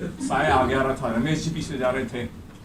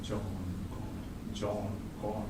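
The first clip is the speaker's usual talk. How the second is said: soft ghost voice; 5 semitones lower, 12 dB quieter, slower than usual. Acted. Ghost voice in story.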